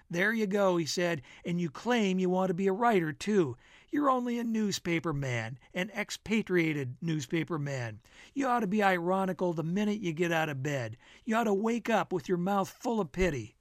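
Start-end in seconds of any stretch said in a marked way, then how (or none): 0.1-0.8 slightly raised, emphatic ribbing; lightly voiced needling friend. Bill ribbing the narrator over coffee, lightly voiced needling. Bill teasingly berates Jake. 1.4-13.6 slightly raised, emphatic ribbing; lightly voiced needling friend. Bill ribbing the narrator over coffee, lightly voiced needling. Bill teasingly berates Jake.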